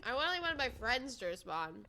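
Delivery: crunching chips while talking; chewing noisily. Real, not acted. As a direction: talk through a mouthful of chips. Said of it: "I'm sorry I'm eating chips on the podcast".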